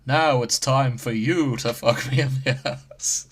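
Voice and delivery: hammy dubbed anime line, overly dramatic; overacted anime dub. Shown as a demonstration. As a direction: read it like a bad English anime dub. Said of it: "that reads like a bad anime dub".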